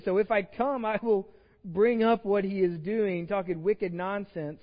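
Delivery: put-on a playful stab at a Boston accent. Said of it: "that was my attempt at Boston accents".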